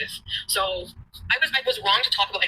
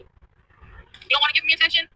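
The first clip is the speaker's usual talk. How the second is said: slow, mocking challenge; slow taunt; 5 semitones higher, slower than usual. Real, not acted. Taunting her ex about attention, slow and mocking. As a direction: drag it out to needle him.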